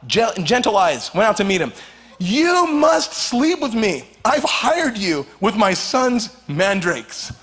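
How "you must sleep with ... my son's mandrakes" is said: lightly voiced Leah, slow and insistent; a hint of a wife making a claim, drawn out slowly; mock demanding wife. Preacher voices Leah telling Jacob, mock insistent.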